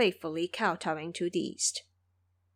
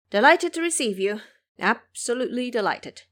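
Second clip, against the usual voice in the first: louder, eager welcome; delighted; 2 semitones higher, 5 dB louder than usual. Acted. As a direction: beam with delight. Dragon King welcomes.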